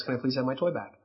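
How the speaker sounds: put-on soft, low, self-controlled child's request; practiced polite request. Shown as a demonstration. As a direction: ask softly and politely, as rehearsed. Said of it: "practice until the kid says".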